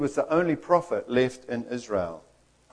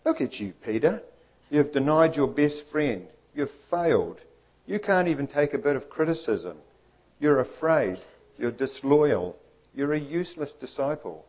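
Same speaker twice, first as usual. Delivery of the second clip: lightly voiced accuser, a touch higher; critical inner voice; 3 semitones higher than usual. Inner voice condemns Peter for denying his friend, mildly critical. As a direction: list each fault as a mild nagging reproach. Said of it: "that critical little inner voice".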